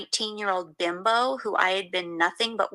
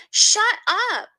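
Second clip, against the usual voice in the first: high, loud yell in her face; 13 semitones higher, 6 dB louder than usual. A narrator's reading. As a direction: snap back hard and loud. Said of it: "I yelled in her face".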